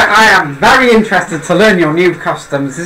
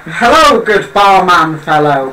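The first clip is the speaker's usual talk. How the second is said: slow, overly polite order; stiff bookish stranger; slower than usual. Acted. Newcomer asking the barman for a drink, stiffly polite. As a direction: ask like a foreigner reading from a phrasebook.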